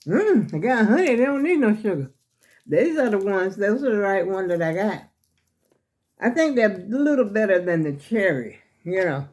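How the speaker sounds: talking around a cough drop in the mouth. Real, not acted. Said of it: "I'm gonna take it back out of my mouth".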